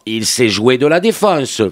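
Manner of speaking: lightly imitated match commentator, drawn out; slow mock play-by-play with a hint of commentator; football commentator. Imitating candidates who copy Canal commentators, mock commentary voice. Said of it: "les mêmes voix, tu vois".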